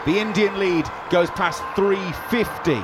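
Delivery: brisk radio play-by-play; cricket commentator. Real, not acted. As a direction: call the overs live on radio.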